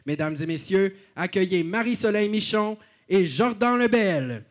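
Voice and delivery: announcer introducing the hosts; arena announcer. Acted. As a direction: announce them to the room. Gala host introductions.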